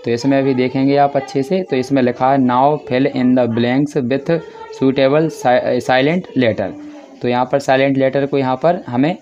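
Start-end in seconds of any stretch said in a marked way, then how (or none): 2.4-6.7 very slow, word by word reading; slow dictation. Shown as a demonstration. Teacher reads the question very slowly for class seven. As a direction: spell out the instruction slowly for pupils.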